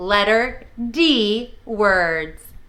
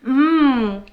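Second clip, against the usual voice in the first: pretend savoring hum. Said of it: "let's pretend to eat a donut".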